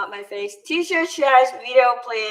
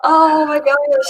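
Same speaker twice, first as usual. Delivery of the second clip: laughing; 4 semitones higher, 4 dB louder, slower than usual. Real, not acted. Laughing at fake eyelashes.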